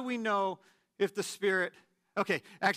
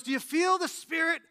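much higher, louder preacher cry; mock preacher shout; 9 semitones higher, 5 dB louder than usual. A Pentecostal preacher calling out to the congregation, mock shout. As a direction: belt it like a revival preacher. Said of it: "He goes".

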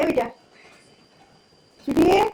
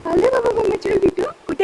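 doting pet talk; 6 semitones higher, 4 dB louder than usual. Real, not acted. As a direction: coo to a beloved parrot in a raised lilt. Calling her parrot lovingly. (लाडाने, उंच आवाजात लांबवून)

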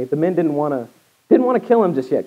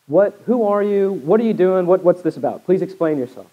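higher, louder startled questions; alarmed sailors; 4 semitones higher, 3 dB louder than usual. Acted. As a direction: fire questions at Jonah in alarm. Panicked sailors question Jonah.

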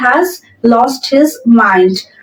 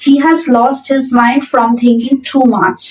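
very slow, word by word dictation; slow model sentence; much slower than usual. Shown as a demonstration. Teacher reading the example sentence aloud to students, very slow and clear. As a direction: spell it out slowly for learners. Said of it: "তাহলে from লিখব".

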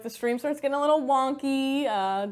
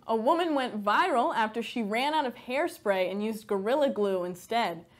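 satirical news anchor delivery; scripted newsdesk read; mock news read; 3 semitones lower than usual. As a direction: read the joke headline like an anchor.

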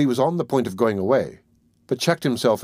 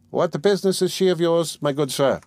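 put-on higher, stern voice of a grasping old woman; old pawnbroker; 6 semitones higher than usual. A narrator's reading. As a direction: lay down the terms like a tight-fisted old moneylender. Old pawnbroker suspicious retort.

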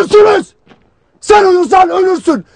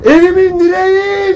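mother's wail; 2 semitones higher than usual. Retold or imitated. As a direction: call out like a weeping mother. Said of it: "diye ağlıyor".

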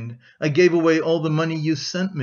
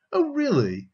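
much higher-pitched surprised question; suddenly roused; 12 semitones higher than usual. A narrator's reading. Raskolnikov takes in news of a death, suddenly roused. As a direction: jump up high, as if suddenly waking up. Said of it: "He roused himself suddenly as if waking up".

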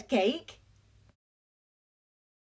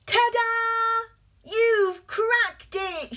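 excited exclaim; 9 semitones higher, slower than usual. Acted. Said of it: "shouted Fish".

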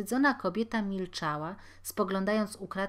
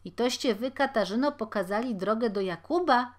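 reproachful question; 4 semitones higher, 6 dB louder than usual. Acted. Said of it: "spytał bednarz kobiety".

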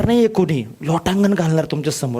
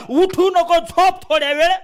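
laziness voice; 9 semitones higher than usual. Retold or imitated. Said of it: "तो आळस म्हणतो".

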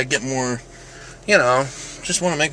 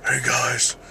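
Jigsaw; 2 semitones lower, 5 dB quieter than usual. Acted. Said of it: "sounds like Jigsaw".

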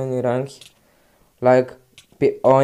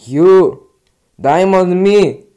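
slow, loud call of the name; 3 semitones higher, 6 dB louder, slower than usual. Real, not acted. Gamer yelling at another player.

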